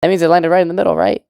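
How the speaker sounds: high, bright-eyed gush about the perfect shot; excited. Retold or imitated. Chizuru thrilled her ball finally went in, excited and high. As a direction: squeal it out like a proud kid. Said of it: "and she's all excited".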